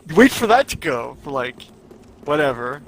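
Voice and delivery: condescending tutorial. Pretend. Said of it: "Let me know if you need me to explain that to you".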